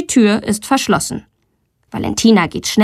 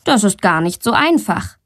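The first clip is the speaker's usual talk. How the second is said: plain reading voice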